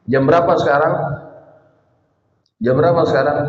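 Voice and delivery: stern father pressing the question; pointed question. Retold or imitated. Father confronting his son who came home late, stern pointed question. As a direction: ask it to make a point, not to learn. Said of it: "Bapaknya bukan nanya ... mau negesin".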